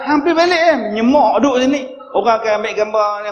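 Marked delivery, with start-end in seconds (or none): 0.1-1.8 chasing someone off with a high, loud cry; shooing away loudly. Retold or imitated. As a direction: hambat orang pergi, suara tinggi dan kuat. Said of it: "Kak saya hambat". (halau dengan suara tinggi)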